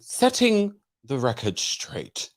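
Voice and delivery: slow mock English accent. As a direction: read it with a posh English accent. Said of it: "should I put on an English accent?".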